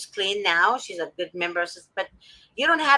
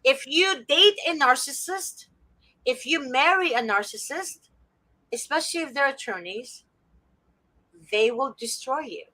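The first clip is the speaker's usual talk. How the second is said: emphatic warning; 6 semitones higher than usual. Real, not acted. Emphatic warning about narcissists.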